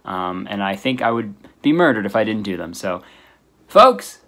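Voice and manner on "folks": high, loud shouted greeting; catchphrase shout. Real, not acted. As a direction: belt out the catchphrase. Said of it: "I also forgot to do a folks clap".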